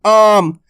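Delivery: आम with a long, drawn-out आ; stretched vowel. Shown as a demonstration. Teacher shows students the long आ, stretched. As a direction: pull the आ in आम long and slow. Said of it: "खेच को होता है".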